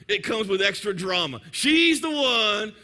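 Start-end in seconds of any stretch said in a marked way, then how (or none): 1.5-2.7 emphatic slow declaration. Real, not acted. Describing her dramatic middle child.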